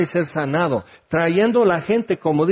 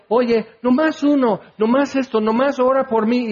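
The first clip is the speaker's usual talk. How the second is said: pleading crowd; 7 semitones higher than usual. Retold or imitated. Crowd begging Jesus for prayer.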